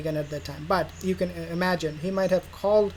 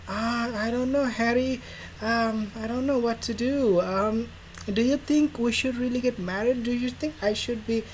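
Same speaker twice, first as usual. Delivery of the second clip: mock insecure Meghan; 4 semitones higher than usual. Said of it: "satanic whisper".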